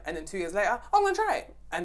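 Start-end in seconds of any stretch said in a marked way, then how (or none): 0.9-1.5 high, louder eager exclamation; mock enthusiasm. Daughter mimicking mum rediscovering diets two years later, mock-enthusiastic. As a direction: mimic fresh zeal for the same old fad.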